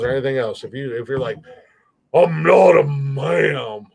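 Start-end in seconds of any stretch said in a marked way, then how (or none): 2.1-3.9 loud, long drawn-out mock whine; mock protest. Imitating a woman objecting to ma'am, hammed-up protest. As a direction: drag it out like an exaggerated complaint.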